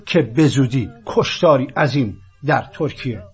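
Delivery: loud, solemn prophecy reading; prophetic proclamation. Acted. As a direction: declaim it like an ancient prophecy. Reads prophecy to the Turks.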